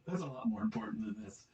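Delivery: sarcastic whispered aside; whispering. Real, not acted. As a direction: whisper it under your breath.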